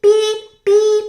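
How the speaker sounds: high, loud beeps; echoed beeps. A narrator's reading. Narrator echoing the truck's call for help.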